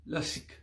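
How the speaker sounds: LASIK with no final A, ending on K; varied vowel intonation. Shown as a demonstration. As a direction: drop the last vowel of lasik. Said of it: "depending on the intonations of the vowels".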